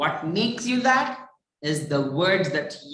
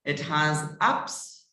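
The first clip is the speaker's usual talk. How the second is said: slow, with the voice climbing on "ups"; drawn-out demo of a rise on "ups"; wavy intonation; 4 semitones lower, slower than usual. Shown as a demonstration. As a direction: let "ups" lift at the end. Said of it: "My voice is like this".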